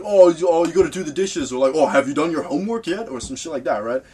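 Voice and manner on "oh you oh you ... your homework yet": higher and much louder, a hammed-up nagging family member; mock nagging parent. Family interrupting the music session, imitated with mock nagging. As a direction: call through the door like an annoying mum. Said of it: "someone just starts banging on your door".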